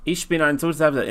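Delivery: "Ich" said as "isch" with sh. Shown as a demonstration. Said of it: "some people say".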